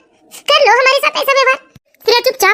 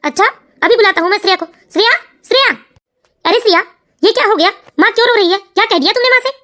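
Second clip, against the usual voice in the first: lower, steadier grown son asking what happened; a son gently pressing his mother; son's voice; 2 semitones lower than usual. Acted. Son asks his weeping mother what happened, lower voice. Son figure calls wife.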